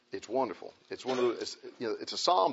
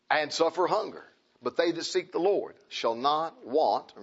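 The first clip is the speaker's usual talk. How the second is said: slow, solemn reading of the verse; scripture reading; 3 semitones higher, slower than usual. Acted. Pastor reading Psalm thirty-four to the church, slow and solemn. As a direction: read it out slowly with reverence.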